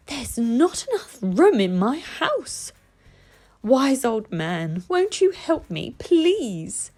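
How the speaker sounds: put-on high, slow pleading old woman's voice; pleading old lady. Old lady begs the wise old man for help, high and pleading.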